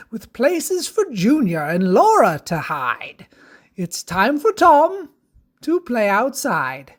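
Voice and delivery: lilting rhymed storybook read; sing-song rhyming verse; children's story narration. Acted.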